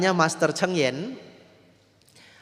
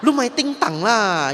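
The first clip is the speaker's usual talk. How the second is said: scolding; 8 semitones higher, 7 dB louder than usual. Retold or imitated. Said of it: "kalau suaminya gerak dia pukul".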